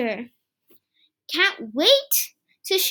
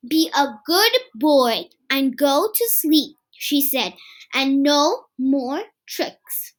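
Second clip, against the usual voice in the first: gentle parent; 3 semitones lower than usual. Acted. Mom tucking Kipper in.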